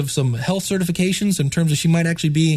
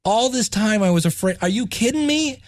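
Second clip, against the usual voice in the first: disbelieving relief; 4 semitones higher than usual. Retold or imitated. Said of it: "all the way through to".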